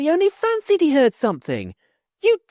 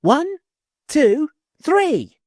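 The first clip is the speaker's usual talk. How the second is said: put-on high, loud children's yell; high shouted count; 6 dB louder, much slower than usual. Children yelling from church tower.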